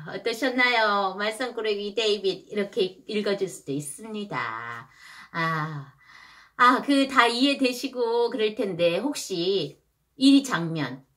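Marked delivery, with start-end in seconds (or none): none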